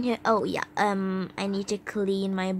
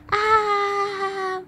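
long, high held ah; play-acted cry; 10 semitones higher than usual. New girl reacting to jibe about Australia, high mock cry.

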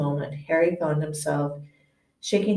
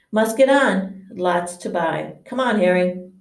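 louder, hurried call; brisk; 3 dB louder than usual. Acted. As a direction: hustle them out. Hagrid hurries Harry out.

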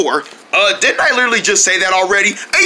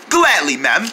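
put-on British accent; 4 semitones lower, slower than usual. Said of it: "British accent".

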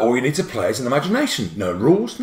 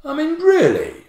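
wife's disbelief; 13 semitones higher than usual. Retold or imitated. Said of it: "She said".

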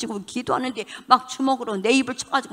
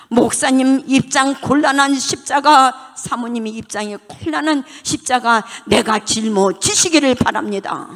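fervent prayer; 4 semitones higher, 4 dB louder than usual. Acted. Preacher repeats prayer with force.

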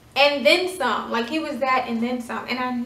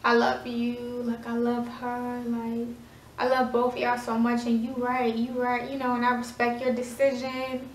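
hushed, softer, broken apology; tearful whisper; 5 dB quieter than usual. Retold or imitated. Ex-boyfriend apologizing in tears to her, hushed and soft. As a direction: whisper it like a crying ex begging forgiveness. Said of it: "he's crying".

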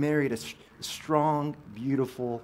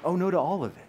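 a lightly voiced God saying no; God turning down the plans, lightly voiced; God's flat verdict; 5 semitones higher, 4 dB louder, faster than usual. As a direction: hand down a calm refusal. God answers the planner.

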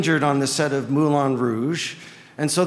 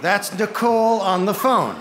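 laughing; 5 semitones higher than usual. Real, not acted. Joking about the phone cameo.

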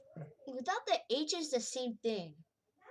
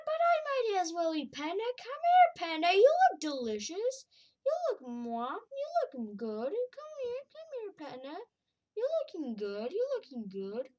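high, loud singsong predator taunt; singsong menace at dinner; hungry taunt; 7 semitones higher, 5 dB louder than usual. Acted. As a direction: tease the prey like a hungry cat.

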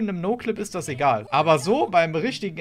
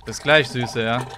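lower, slow creepy flirting; sleazy suitor voice; 4 semitones lower, 4 dB louder than usual. Acted. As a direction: play the creepy client low. (schmieriger Freier)

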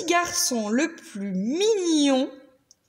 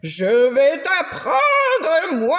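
slow, louder growled threat; threatening monster; 3 semitones higher, 4 dB louder, much slower than usual. Acted. The angry monster threatens the little girl, slow and loud. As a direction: drag out the threat, looming. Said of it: "il menaça la fillette".

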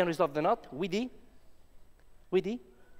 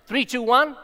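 loud countdown; 7 semitones higher, 6 dB louder than usual. Real, not acted. Countdown for vanishing trick.

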